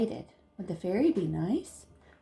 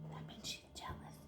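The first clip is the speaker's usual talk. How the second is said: quick hushed aside; whisper; 21 dB quieter, faster than usual. Acted. Fairy whispers to Jaya that the witch is jealous. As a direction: tell it as a secret.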